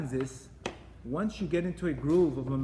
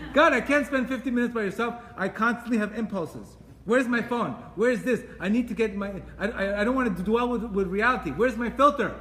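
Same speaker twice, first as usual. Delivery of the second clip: higher, louder, antsy inner voice; hammed-up craving voice, louder and higher; restless phone addict; 4 semitones higher, 3 dB louder than usual. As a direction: play the fidgety person who can't sit alone. Voicing restless person's inner impulses.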